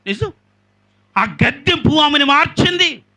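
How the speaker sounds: loud, high preaching of ఆమెను with a falling end; emphatic declaration. Shown as a demonstration. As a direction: proclaim it to the crowd. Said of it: "ఆమెను చెప్పండి". (బిగ్గరగా, ఉద్ఘాటనతో ప్రకటన)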